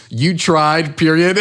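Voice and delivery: patronizing pat on the head; a curt, dismissive "you tried"; condescending. Retold or imitated. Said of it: "Just super condescending".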